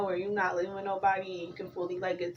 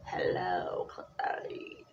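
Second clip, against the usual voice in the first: Hannibal Lecter impression; 13 semitones lower, 6 dB quieter, much slower than usual. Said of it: "He be like".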